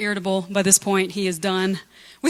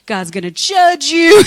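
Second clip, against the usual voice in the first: louder, slow, stern mock threat; mock furious warning; 6 semitones higher, 9 dB louder, slower than usual. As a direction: hammer it like an exasperated prophet. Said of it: "he is just like".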